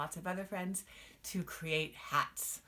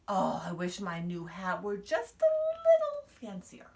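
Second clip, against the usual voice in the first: wishful; 3 semitones higher, 7 dB louder than usual. Acted. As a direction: let the wish soar up on the last word. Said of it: "wished out loud".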